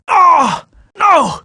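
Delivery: sudden high dismay. Acted. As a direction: yelp it out in alarm. Hero dismayed at setback.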